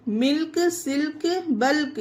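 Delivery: "मिल्क, सिल्क, बल्क" with L heard before K; "मिल्क, सिल्क, बल्क", L and K both pronounced; sounded L. Shown as a demonstration. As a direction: list "मिल्क, सिल्क, बल्क", voicing each L. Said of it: "ला पढ़ा गया है".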